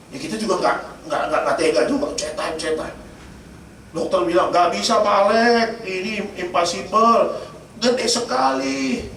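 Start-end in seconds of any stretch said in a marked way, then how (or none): 4.5-9.1 slow, drawn-out mock verdict; retold doctor's verdict. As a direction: stretch the words out, imitating a doctor. Acted doctor refusing natural birth.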